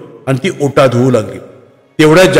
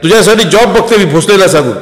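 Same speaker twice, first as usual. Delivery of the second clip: pleading mother; 6 semitones higher than usual. Acted. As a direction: beg your daughter to give up this line. Vimal pleads with daughter. (मुलीला विनवणारी आई, किंचित उंच आवाजात)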